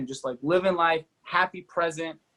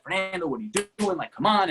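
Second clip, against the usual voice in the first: quick, higher mock scolding of himself; a fast inner voice scolding himself for running late; self-scolding anger; 5 semitones higher than usual. Retold inner voice scolding himself, quick and higher. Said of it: "like, anger".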